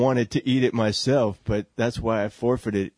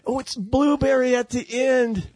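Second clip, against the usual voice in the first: Willy Wonka candy delight; 4 semitones higher than usual. Retold or imitated. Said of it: "where it's like".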